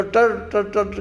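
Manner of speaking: quick repeated frog-call syllables; frog croak imitation. Preacher describes frogs after a little rain, imitated croaking. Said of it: "आवाज़ आती है".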